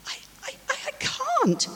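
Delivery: high, faltering stammer. Acted. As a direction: stumble on the words in panic. Fish faltering at advice.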